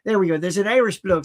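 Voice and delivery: light attempt at an Irish accent. Shown as a demonstration. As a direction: try out a mild Irish lilt. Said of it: "Let me get me Irish down".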